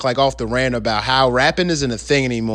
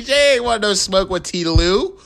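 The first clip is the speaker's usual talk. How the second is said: gloating; 11 semitones higher than usual. Real, not acted. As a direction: drag it out, triumphant. Gloating over the rival.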